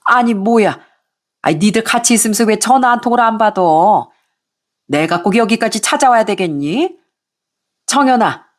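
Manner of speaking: lightly voiced nagging mother-in-law; a hint of a shrill-tempered mother-in-law; scolding mother-in-law. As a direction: scold them like an irate in-law.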